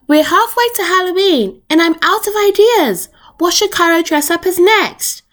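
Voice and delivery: a mum out of ideas, asking the family; mummy's voice. Acted.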